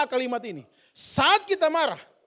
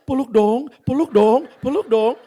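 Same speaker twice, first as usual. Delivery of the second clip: begging for a hug; 4 dB louder, slower than usual. Acted.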